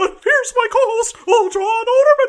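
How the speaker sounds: high cartoon mouse voice. Introducing the co-host on the show, in a Mickey Mouse voice. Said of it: "I can't do a Mickey voice".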